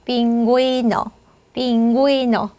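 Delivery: 빙고이노 as "pin-GUI-no", u audible before i; u sounded. Shown as a demonstration. Teacher modeling the dotted u, careful 빙고이노. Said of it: "구이 이렇게 해주시면 되죠".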